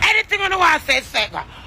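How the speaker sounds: shouted challenge, dropping off at the end; shouting a dare. Real, not acted. Daring her rival to speak.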